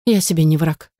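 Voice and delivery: plain reading voice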